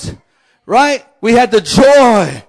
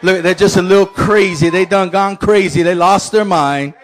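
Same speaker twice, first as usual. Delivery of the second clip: much lower and softer, mocking doubter; skeptical onlooker; 5 semitones lower, 4 dB quieter than usual. Pastor voicing doubters watching worshippers, low scoffing murmur. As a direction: mutter it like an unimpressed bystander. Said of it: "Some of you are like".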